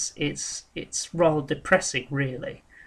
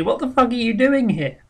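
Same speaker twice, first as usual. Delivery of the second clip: the assessor's question mocked higher and louder, stressing fuck; imitating him with a higher, louder stab on fuck; rude assessor again; 8 semitones higher, 4 dB louder than usual. Retelling the assessor's jab to the claimant, higher and louder.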